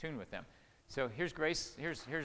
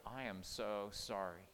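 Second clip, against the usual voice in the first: softly earnest, unhurried; apologetic; 4 semitones lower, 4 dB quieter than usual. Retold or imitated. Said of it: "I started telling my children".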